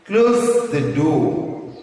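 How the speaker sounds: very slow "Close the door", emphasis on "Close"; sentence stress demo. Shown as a demonstration. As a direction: draw out the stressed words for learners. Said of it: "where you have to stress".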